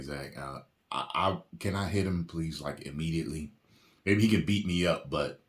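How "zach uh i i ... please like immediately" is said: softly voiced pretend plea; mock discreet request. Actor asks director to hit him, mock discreet. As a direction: play a low-key, hesitant ask.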